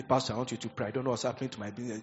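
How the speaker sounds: lightly voiced worried congregant; a hint of a troubled member asking for prayer; imitated church member.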